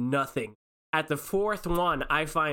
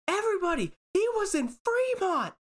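yelling. Retold or imitated. Woman yelling a warning to everyone in line. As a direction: warn the whole line in a panic. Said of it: "she starts yelling".

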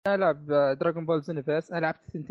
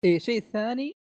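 fuzz distortion; 4 semitones higher than usual. Real, not acted. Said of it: "حساسية المايك عندك مرة مضروبة".

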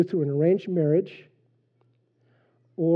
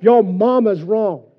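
loud, slow, higher yell; drill instructor yell; 4 semitones higher, 8 dB louder, slower than usual. Retold or imitated. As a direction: shout it down at the recruit. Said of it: "And he yelled it".

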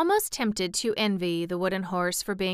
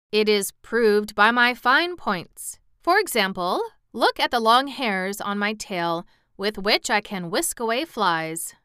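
slightly raised, declaiming horse voice; boastful cab horse; 3 semitones higher, 4 dB louder than usual. Acted. Cab horse shows his fine points, lightly boastful. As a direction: show off with a touch of pride.

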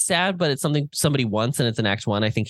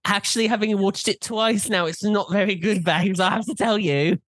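playful put-on British accent, higher pitched; mock British accent; 8 semitones higher than usual. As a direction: tease her in a hammed-up British accent. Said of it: "I just wasn't expecting the accent".

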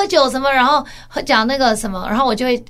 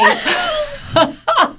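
high burst of laughter; big laugh. Real, not acted. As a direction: laugh hard at your own joke. Laughs after punchline.

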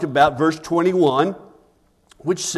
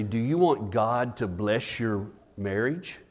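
low, soft counseling voice; hushed, lowered question; retold pastoral question; 6 semitones lower, 8 dB quieter than usual. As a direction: ask it quietly and seriously. Retells his question to the couple.

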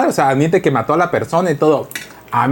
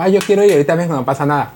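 whiny daughter; 3 semitones higher than usual. Retold or imitated. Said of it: "pero la niña dijo".

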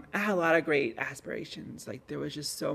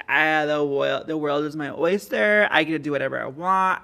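louder, buoyant inner voice; excited; 6 dB louder than usual. Retold or imitated. Recalling his senior-year mindset, mildly excited. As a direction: let the freedom lift the words.

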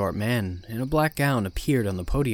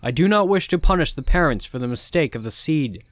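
ominous sermon; 4 semitones higher, 6 dB louder than usual. Acted. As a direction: warn the flock with menace. Cult leader sermon.

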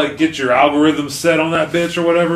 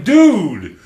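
mock protest; 8 semitones higher, 4 dB louder, much slower than usual. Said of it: "I'm like".

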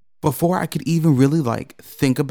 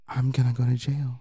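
grim inner thought; 7 dB quieter than usual. Retold or imitated. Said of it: "I was sitting there like".

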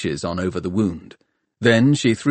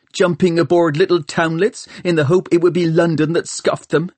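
raised, heated high-pitched tirade; angry rant; 7 semitones higher than usual. A narrator's reading. Hester blames Tom for stopping her revenge, angry. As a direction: rant at him with bitter exasperation.

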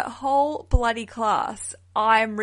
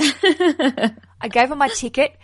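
slow, louder, laughing through the words; 4 semitones higher, 7 dB louder, much slower than usual. Real, not acted. Host retelling her fitness class mix-up to guest, laughing. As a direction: laugh as the embarrassing memory comes back. Laughing at own embarrassing story.

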